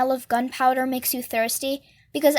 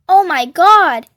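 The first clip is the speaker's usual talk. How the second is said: loud, drawn-out exclamation; whooping shriek; 3 semitones higher, 10 dB louder, slower than usual. A narrator's reading. Freak whooping it up at his friend's joke, excited shriek. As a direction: whoop it out, big and slow. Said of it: "he's so shrieking and laughing and whooping it up".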